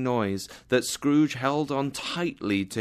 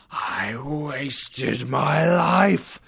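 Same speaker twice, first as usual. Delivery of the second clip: drawn-out, louder wail of regret; anguished cry; 4 semitones higher, 4 dB louder, much slower than usual. Acted. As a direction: moan it slowly, stretched out. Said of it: "the ghost let out another cry".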